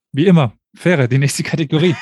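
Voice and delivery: lachend und etwas lauter angesagt; laughing. Real, not acted. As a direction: die Ansage durchs Lachen prusten. Moderator lacht über Wortwitz. (lachend angesagt)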